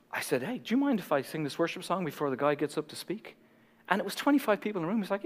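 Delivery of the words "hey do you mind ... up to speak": hushed, timid polite request; gentle retold request. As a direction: ask softly, careful not to impose. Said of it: "I just really gently said".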